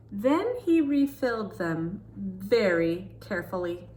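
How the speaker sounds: put-on lively read-aloud for children; storybook reading. Reading a picture book to kids, storytelling voice.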